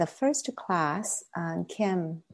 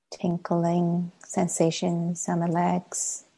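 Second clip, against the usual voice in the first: measured meditation guidance with long silences; guided meditation. Acted. Teacher leading a class into sitting practice, guided meditation. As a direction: guide them gently inward, pausing long between phrases.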